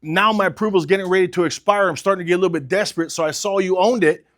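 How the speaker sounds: urgent, slightly pressed sales pitch, a touch desperate; urgent, stressed pitch. Shown as a demonstration. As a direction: sound like time is running out. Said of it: "when they can hear that stress in my voice".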